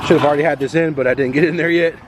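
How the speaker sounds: stuffy nose from a cold; nasal, blocked-up voice. Real, not acted. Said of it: "if I sound kinda nasally today".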